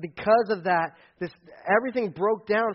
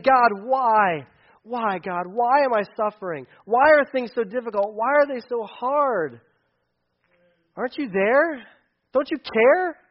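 crying out; 4 semitones higher, 5 dB louder, slower than usual. Retold or imitated. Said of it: "he's crying out and saying".

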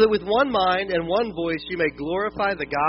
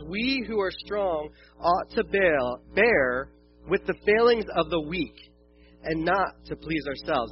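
scripture reading; slower than usual. Acted. Reads scripture slowly.

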